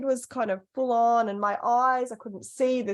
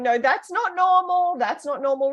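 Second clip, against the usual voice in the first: husband quoted; 9 semitones higher, 3 dB louder than usual. Retold or imitated. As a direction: mimic him gently telling her it's not normal. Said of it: "he's sort of saying".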